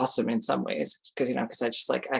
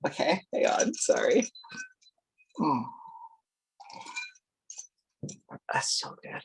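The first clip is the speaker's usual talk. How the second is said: whispering; 3 semitones higher, 7 dB quieter than usual. Real, not acted. Pauses, aside to herself.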